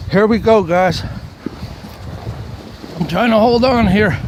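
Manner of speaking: hyped up for the ride down; excited. Real, not acted. Bracing at the top of the hill.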